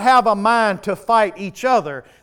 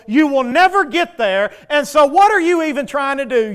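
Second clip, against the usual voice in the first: enemy taunting yell; 4 semitones higher than usual. Acted. The enemy yelling at a weak believer, harsh taunting. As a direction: hammer him down with every insult. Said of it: "the enemy yell in your ear".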